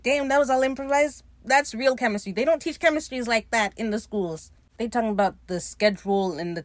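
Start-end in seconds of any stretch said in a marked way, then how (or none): 0.0-4.5 higher, louder fan raving; excited gushing. Real, not acted. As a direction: gush like an impressed fan. Gushing over the actors' chemistry.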